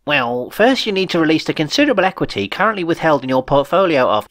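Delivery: a lightly voiced, jargon-heavy official; wordy accountant. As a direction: explain the equity at length. Held voice of the accountant.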